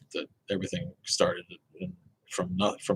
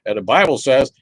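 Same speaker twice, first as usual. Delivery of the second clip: louder, higher mock protest; lightly put-on voice of people insisting; imitated believers; 5 semitones higher, 12 dB louder than usual. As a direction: chime in loudly as an imitated believer. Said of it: "But people are like".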